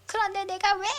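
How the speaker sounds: put-on loud, defiant old woman rising to a shriek; furious grandma defending her seat; indignant grandmother. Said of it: "목청은 여전하다".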